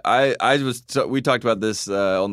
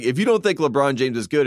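imitating Greenberg; 3 semitones higher than usual. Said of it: "Greenberg starts like".

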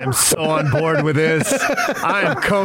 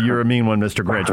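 Grinch song line; 9 semitones lower, faster than usual. Retold or imitated. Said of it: "you'll drop the".

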